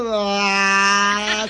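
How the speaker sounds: long, level mock crying "aah"; mock wail. Jaimito crying from the slap, long mock wail. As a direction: hold out a hammed-up wail. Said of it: "se pone a llorar".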